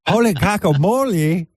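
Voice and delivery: put-on high, lilting girl voice; mock ladyboy. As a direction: exclaim in a high ladyboy accent. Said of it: "you forgot your lady boy voice".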